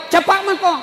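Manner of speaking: high loud hurry-up call; urging call. Retold or imitated. Uncle urging nephew to hurry, high and loud. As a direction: hurry the boy along.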